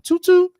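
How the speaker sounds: high, loud playful toot toot; mock horn toot. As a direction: toot like a little horn, jokingly. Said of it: "to toot my horn".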